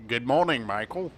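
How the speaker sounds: lightly voiced talking-car greeting, rising on the name; Kit. Player practising an impression greets Michael, lightly imitated Kit. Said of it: "work on my Kit impression".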